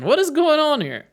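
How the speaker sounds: high, indignant cry; flabbergasted courtroom outburst; acted outrage. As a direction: demand an explanation, pitch soaring. Voicing outraged judge after the shot.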